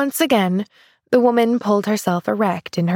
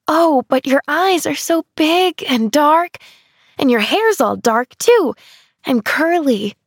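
cooing; 7 semitones higher, 3 dB louder than usual. Acted. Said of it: "cooed Pollyanna".

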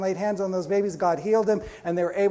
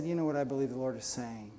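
soft, lower and gentle; 6 semitones lower, 9 dB quieter than usual. Retold or imitated. Bishop gently sharing a word with a pastor, soft and low. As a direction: say it softly, like a kind hint. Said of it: "he just gently said".

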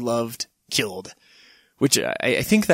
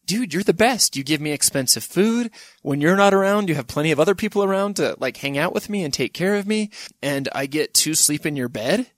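lightly voiced grateful dog, a bit higher; adoring dog; 4 semitones higher than usual. Dog praising its owner Hitler, lightly voiced adoration. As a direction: gush lightly like a devoted pet. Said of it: "was he just like".

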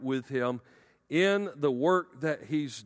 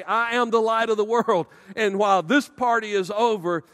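proclaiming; 4 semitones higher, 4 dB louder than usual. Acted. Jesus calls into the darkness.

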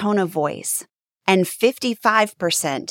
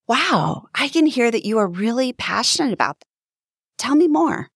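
higher, brighter and quicker with real interest; engaged, curious and lifted; leaning in, curious; 4 semitones higher than usual. Shown as a demonstration. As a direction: sound genuinely eager to hear more. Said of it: "Do you hear the difference?".

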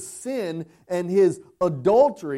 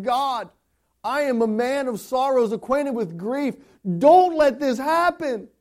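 pleading cry; 4 semitones higher, 4 dB louder than usual. Retold or imitated. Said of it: "cries out to God, saying".

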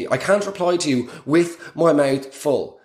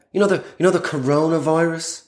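Michael McIntyre. Acted. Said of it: "doing this Michael McIntyre thing".

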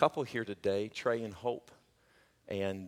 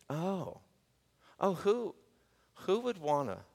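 mock reluctance; 8 semitones higher, slower than usual. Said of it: "when you talk like this, it's like".

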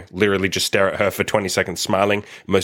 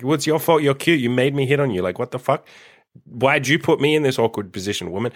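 mock accusation; 4 semitones higher than usual. Mock blaming the girl playfully.

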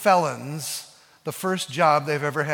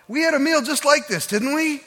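wistful recollection; 9 semitones higher, 3 dB louder than usual. Acted. Disciples recalling the last supper.

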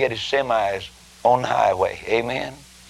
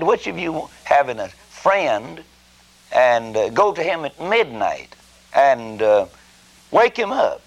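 voicing Jesus; 4 semitones higher, slower than usual. Preacher quoting Jesus' parable.

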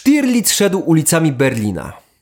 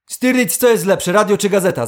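suspicious; 5 semitones higher than usual. Acted. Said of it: "zapytał podejrzliwie Müller".

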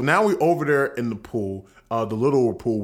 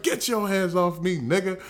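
mock aggressive shove-off; 6 semitones higher than usual. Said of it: "he was being extra aggressive".

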